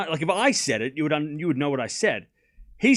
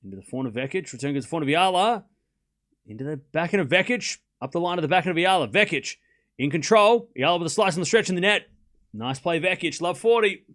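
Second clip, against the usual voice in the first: running tennis rally commentary; live play-by-play; 2 semitones higher than usual. Real, not acted. Calling Vekic's rally shot by shot, live play-by-play. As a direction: follow each shot quickly, lifting as the point ends.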